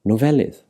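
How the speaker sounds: Nofelydd with "fel" emphasised; stress on second-last syllable. Shown as a demonstration. Teacher repeating the example for learners, Nofelydd stressed on "fel". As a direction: lean on the middle syllable of Nofelydd. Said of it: "is again emphasised".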